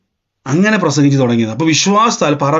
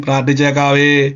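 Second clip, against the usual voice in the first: mimicked obliging reply. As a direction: answer in a stretched placating monotone. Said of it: "ഞാൻ പറയും".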